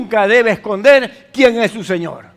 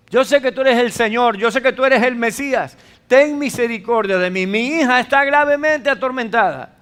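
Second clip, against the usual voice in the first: súplica fervorosa; 4 semitones higher, 3 dB louder than usual. Retold or imitated. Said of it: "está diciendo ahí".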